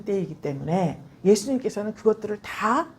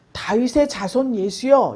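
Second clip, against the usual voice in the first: calling out; slower than usual. Retold or imitated. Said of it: "이렇게 불렀습니다".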